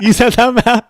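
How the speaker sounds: high mock reply; shop kid. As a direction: play the confused kid behind the counter. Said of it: "And the kid's like".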